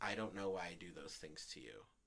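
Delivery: imitated calm voice. Retelling his answer after being asked why he broke things, retelling a calm reply. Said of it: "in a very returning calm voice".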